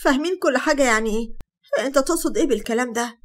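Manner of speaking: puzzled disbelief. Acted. Sara to Hatem, puzzled and indignant. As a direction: ask what he could mean. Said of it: "بصيت له باستغراب".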